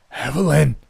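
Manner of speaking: a dying man's startled cry out; cried aloud. A narrator's reading. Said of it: "saw and cried aloud".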